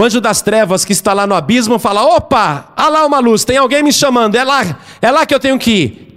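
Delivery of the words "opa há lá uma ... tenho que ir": higher, excited mock voice; eager discovery. Dark angel in the abyss seeing a candle's light, eager. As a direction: act out suddenly spotting your chance.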